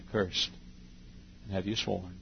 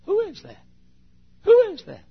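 high astonished cry; amazed question; 10 dB louder than usual. Acted. Bystander amazed at the street preacher, high. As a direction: gasp it out in wonder. Onlooker asking about the preacher.

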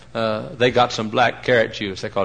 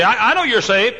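mock pious quote; 12 semitones higher, 5 dB louder than usual. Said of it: "You say".

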